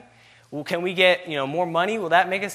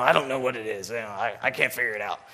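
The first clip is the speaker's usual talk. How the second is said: put-on frustrated young driver; 6 semitones lower, 3 dB quieter than usual. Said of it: "and he was frustrated".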